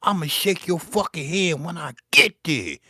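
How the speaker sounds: mock-tough reply to the churchgoer; defiant comeback. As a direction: toss it back at him with swagger. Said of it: "I said".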